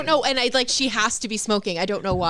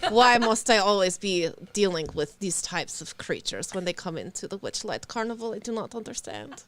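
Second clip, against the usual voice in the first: put-on Russian accent. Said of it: "And Russian".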